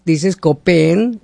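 copeen drawn out slowly, ko-pe-en; demoing how copeen sounds; slow demonstration. Shown as a demonstration. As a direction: stretch the word copeen. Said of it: "al decir copear".

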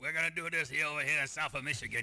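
Chicago-meets-Minnesota accent, mocking the lawmakers; over-the-top Michigan accent. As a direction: ham up a South Michigan yokel accent. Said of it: "It's Chicago accent with a hint of Minnesota in there".

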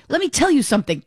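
mock tough-guy scolding the moderator; Peter Alviti impression. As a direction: play the brash Peter Alviti, jabbing. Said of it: "he was Peter Alviti".

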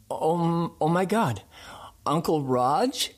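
high, stunned "oh my God" as he recognizes him; imitating an overwhelmed, high exclamation; retold astonished recognition. Retold reunion, sudden recognition.

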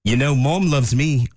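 gruff British dog voice, slow; grunty British accent. Pretend. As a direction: growl it like a cockney bulldog. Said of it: "in a British accent 'cause he's an English bulldog, like a grunty British".

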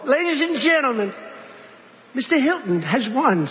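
a lightly voiced official announcing the winner; announcer voice. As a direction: proclaim it like a results announcer. Imitating results announcement.

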